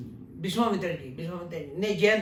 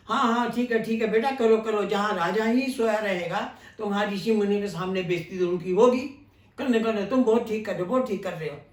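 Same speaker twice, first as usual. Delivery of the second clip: biting, mock-approving sarcasm, a little louder; sarcastic taunt; 2 semitones higher, 4 dB louder than usual. Vishwamitra taunting Lakshman about the sleeping king, sarcastic. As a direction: praise him while you mean the opposite.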